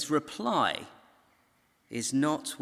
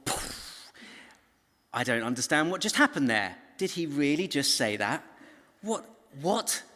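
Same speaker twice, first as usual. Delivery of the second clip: baffled; 3 semitones higher than usual. Acted.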